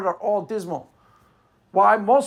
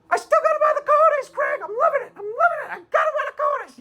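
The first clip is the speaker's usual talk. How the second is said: mock Stephanie gloating. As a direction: crow it like a gleeful cartoon. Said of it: "Yes, Stephanie still has you".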